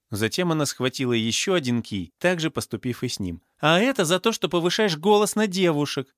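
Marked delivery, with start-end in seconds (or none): 3.6-6.1 high, indignant scolding shout; acted vengeful shout. A narrator's reading. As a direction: shout the reason as you land a blow. Heroine strikes again with cue. (гневный крик на высоких тонах)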